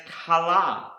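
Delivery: Kala said kuh-LAH; Hebrew pronunciation. Shown as a demonstration. Teacher introducing a Hebrew word, Kala pronounced kuh-LAH. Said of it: "is pronounced".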